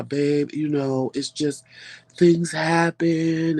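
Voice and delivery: lightly voiced soothing husband, drawn-out ending; pacifying husband. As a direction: placate her, easing slowly into the last words. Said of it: "Is he really trying to pacify me?".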